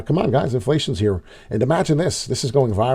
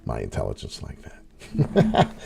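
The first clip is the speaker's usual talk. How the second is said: mock indignation; 12 semitones lower, 9 dB quieter, slower than usual. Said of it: "I said".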